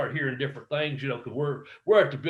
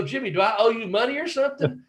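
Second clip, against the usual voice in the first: higher-pitched baffled question; retold incredulity; 8 semitones higher than usual. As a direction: act out baffled protest, pitched up. Retold disbelief at the booking.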